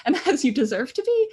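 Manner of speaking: light laugh running through the words. Real, not acted. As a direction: let a small laugh break in.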